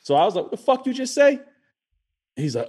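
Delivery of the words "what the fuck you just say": high, sharp mock confrontation; retold angry challenge. Retelling to friends how he confronted the stranger, high and aggressive. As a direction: snap it back like you're ready to fight. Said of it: "attack mode".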